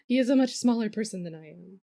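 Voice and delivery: talking through a laugh. Real, not acted. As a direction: chuckle the words out. Laughing while explaining size.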